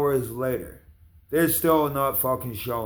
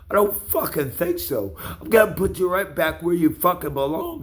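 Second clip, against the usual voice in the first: angry threats; 3 semitones higher than usual. Real, not acted. Threatening the ten-year-old directly.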